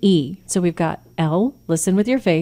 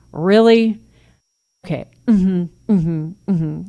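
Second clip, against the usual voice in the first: scoff, then hum along without caring; sarcastic disbelief. Shown as a demonstration. Parent brushing off a teen, mock-sarcastic. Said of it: "with a look that says".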